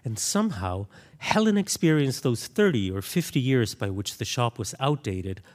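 reading a novel passage aloud to listeners. Acted. Author reading her novel to an audience, measured narration.

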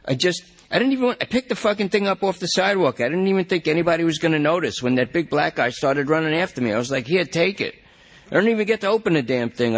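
high, fast, fretful whine; anxious junkie. Acted. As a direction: panic about where she went. Lester rattles off excuses.

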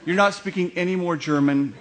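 hammed-up outrage at him; exasperated publicist. Publicist banning the comedian from German, mock outrage. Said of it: "Susanna is saying".

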